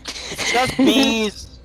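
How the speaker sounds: high, very drawn-out shout; calling out. Acted. Eamon answers Brimstone about the bees, calling out. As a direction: stretch it out high, hollering down a hallway. Eamon calls back to approaching companion.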